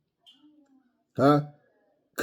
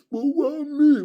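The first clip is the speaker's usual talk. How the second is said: mock whine; 11 semitones higher, slower than usual. Mocking the boxer's whine again.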